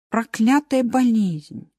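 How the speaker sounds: slow, bitter sigh of a line. Acted. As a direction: drag it out bitterly. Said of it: "с горечью сказал Мартин". (с горечью)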